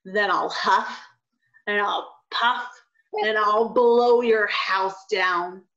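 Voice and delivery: slow, drawn-out wolf threat; big bad wolf. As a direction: stretch each threat slowly. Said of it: "said the wolf".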